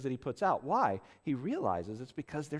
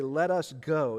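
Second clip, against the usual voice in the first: loud, emphatic urging; rally them with a firm push; quoted call to action, punched louder; 7 dB louder, slower than usual. Retold or imitated. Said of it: "it's written emphatically".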